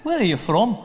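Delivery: put-on curious local with a Scottish accent; Scottish lilt, querying the stranger. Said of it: "They'd be like".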